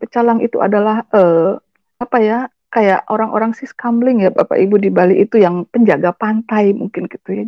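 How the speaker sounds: normal talking voice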